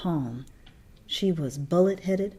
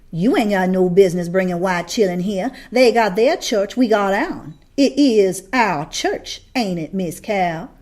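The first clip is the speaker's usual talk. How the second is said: put-on Lula barring white children from her church; confrontational woman; 7 dB louder than usual. A narrator's reading.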